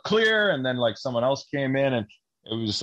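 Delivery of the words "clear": mock officer's shout, pitched well up; retold yell. Officer clearing the shed after bursting in, imitated yell. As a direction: call it out high, imitating a raid. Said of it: "then he yells out".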